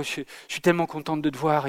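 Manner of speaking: imitating a joyless "tellement contente", said dully and softly; mimicking a singer who sounds unmoved; mock flat joy. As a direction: say you're thrilled with no joy at all. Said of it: "cache ta joie".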